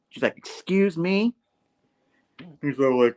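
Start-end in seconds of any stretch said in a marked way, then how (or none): 0.4-1.3 high, rising mock-offended question; indignant. Janice to Hammerhead after the wedding dig, indignant. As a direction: act taken aback, pitch climbing. Offended retort in acted quarrel.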